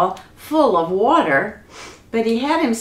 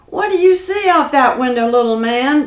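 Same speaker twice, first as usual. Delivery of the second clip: raised, louder demand with a mild growl; lightly growled, high and insistent; growling giant; 3 semitones higher, 5 dB louder than usual. Acted. Giant demands to know what Jack sees, mildly growling. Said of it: "growled the giant".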